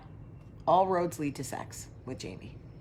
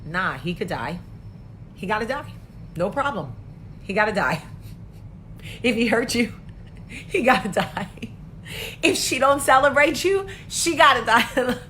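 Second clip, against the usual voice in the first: put-on hype girl; 3 semitones higher, 5 dB louder than usual. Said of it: "you're also the best, like".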